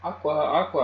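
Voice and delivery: a loud, high hail; calling out. A narrator's reading. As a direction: call out for a missing friend. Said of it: "I called".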